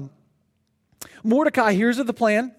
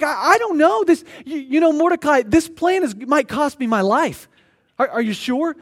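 scared queen; 4 semitones higher than usual. Acted. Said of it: "So she's scared she's gonna die".

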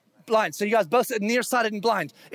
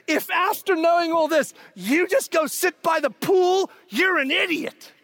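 preaching shout; 6 semitones higher than usual. Real, not acted. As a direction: hammer the blunt word home. Preacher scolding the congregation.

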